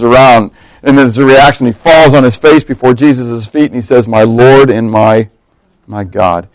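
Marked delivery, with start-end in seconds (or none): 4.1-6.5 lower, slow, hushed reverent words; awed worship. Retold or imitated. Thomas on his face before Jesus, hushed awe. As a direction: whisper it in awe.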